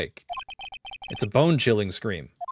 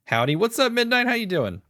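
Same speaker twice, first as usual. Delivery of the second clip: high bouncy howdy; detective greeting his friend cheerfully; cheery greeting; 12 semitones higher than usual. Acted. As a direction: greet your pal brightly.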